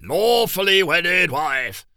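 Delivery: "Lawfully" said slowly with a clear L; careful pronunciation. Acted. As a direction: stress the L in "Lawfully", slow and exact. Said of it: "Say it properly".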